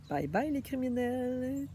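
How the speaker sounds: slow, gleeful bye-bye through a laugh; mocking singsong farewell, laughing; laughing mock goodbye. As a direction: wave them off with a chuckle.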